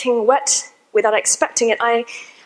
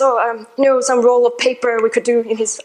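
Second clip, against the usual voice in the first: a weak attempt at a French accent; a barely-there French accent, lightly put on. Quoting the French landlord in a faint French accent. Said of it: "I can't do a French accent very well".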